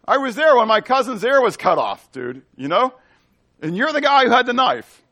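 high, loud dude-style accusation; brash accuser. Acted. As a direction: push it like you caught him red-handed. Relative of the servant accuses.

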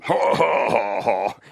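retold burst of ha-ha laughing; imitated laughter. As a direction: act out a friend's laugh, falling in pitch. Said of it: "I just started laughing".

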